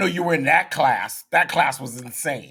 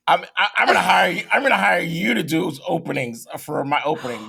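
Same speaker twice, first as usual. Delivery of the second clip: excited; 4 semitones higher, faster than usual. Real, not acted. Excited praise of the intro.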